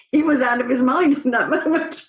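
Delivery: laughing while telling a grim story; can't stop laughing through the words. Real, not acted. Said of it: "I'm laughing 'cause you're laughing".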